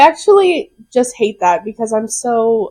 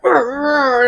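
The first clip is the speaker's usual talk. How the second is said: grumbling growl noise; softly growled mock rant; mock grumble; 4 dB quieter than usual. Retelling a vent to a friend, mock grumble. Imitates own angry typing.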